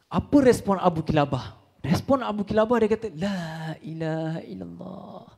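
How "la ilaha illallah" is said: quiet, slow, drawn-out la ilaha illallah; soft slow tahlil. Acted. Father hearing his son is dead, murmuring softly and slowly. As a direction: breathe the words out gently.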